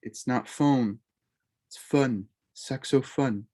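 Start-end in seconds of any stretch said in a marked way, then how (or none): 0.5-1.0 wrong English o in phone; "phone" with the English long o glide, the wrong way. Shown as a demonstration. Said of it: "with that French O". 1.8-2.2 short open o like fun; "fun" as the model for the short French o in saxophone. Shown as a demonstration. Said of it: "with that French O".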